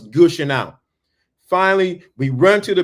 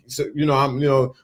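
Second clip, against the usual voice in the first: ordinary talk, nothing marked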